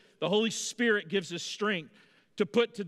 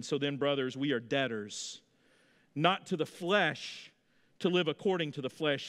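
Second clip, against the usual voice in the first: scripture reading. Acted. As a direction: read it out like solemn scripture. Reads scripture slowly.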